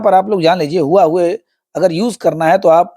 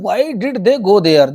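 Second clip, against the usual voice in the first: tense voice; much slower than usual. Acted. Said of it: "in the tensed voice".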